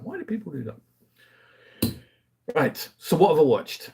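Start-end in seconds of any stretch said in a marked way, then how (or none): 0.0-1.9 high, slow exasperated whine. Retold or imitated. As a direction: draw it out in higher-pitched bafflement. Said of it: "I'm like".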